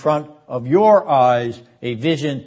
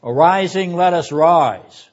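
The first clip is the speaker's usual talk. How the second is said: dramatic call to arms; 4 semitones higher, 5 dB louder than usual. Shown as a demonstration. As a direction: call it out like summoning troops. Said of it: "as if it's a live performance".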